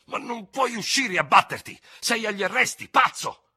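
high, loud scornful retort; angry contempt. Acted. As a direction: throw the objection at him in angry scorn. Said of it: "obiettò con disprezzo iroso". (disprezzo iroso, acuto e forte)

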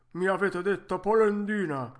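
vecchietto offeso che accusa forte; arrabbiato. Acted. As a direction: accusa con voce più alta e forte. Lite tra i due vecchietti. (arrabbiato e offeso)

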